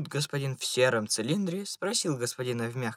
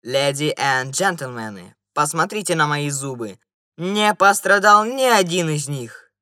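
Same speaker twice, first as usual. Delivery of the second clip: perfectly calm; 2 semitones higher, 8 dB louder than usual. A narrator's reading. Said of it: "совершенно спокойно сказал".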